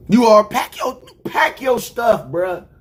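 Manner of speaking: sudden shouted order, drawn out; firing the kicker. Retold or imitated. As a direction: bark at him to pack up and go. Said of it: "they have to be like".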